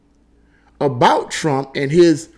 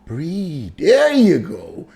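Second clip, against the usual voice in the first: slow soothing breathe cue; calming; 3 semitones higher, much slower than usual. Retold or imitated. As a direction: talk her down gently. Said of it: "I had to literally calm her down".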